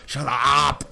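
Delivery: hearty, swearing colonial gent greeting the party; a lightly voiced jolly British explorer; bluff British adventurer. Willie greets the newcomers, a lightly voiced hearty British gent. Willie brags about his yacht.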